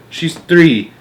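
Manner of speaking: anxious, loud countdown, word by word; alarmed cry. A narrator's reading. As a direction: count down in mounting dismay. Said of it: "Missus Buckets cried".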